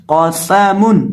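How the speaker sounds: قاسمن read very slowly with a whistling hiss on the س; whistled seen. Shown as a demonstration. Teacher showing pupils the whistling seen, slow and hissed. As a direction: stretch قاسمن out and let the س whistle. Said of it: "سین کے اندر سیٹی کی آواز پیدا کر کے پڑھتے ہیں".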